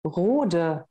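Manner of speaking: Rode said as a German reads it; German reading. Shown as a demonstration. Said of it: "wie Deutsche das wahrscheinlich erstmal lesen würden". (Rode auf Deutsch gelesen)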